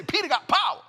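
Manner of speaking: loud, high retold outburst; awed exclamation. Storyteller reliving his amazement at Peter's power, awed exclamation. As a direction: belt out the amazement.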